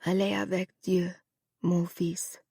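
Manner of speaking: soft French blessing fading to a whisper. Acted. Mother blessing her son in French, whispered. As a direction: bless him with the last of her breath.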